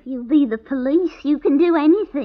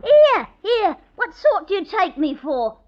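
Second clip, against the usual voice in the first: loud, high, affronted outburst; landlady bristling at the officer, raised and indignant; indignant protest; 3 semitones higher, 4 dB louder than usual. Acted. Landlady protests to the policeman, loud and affronted.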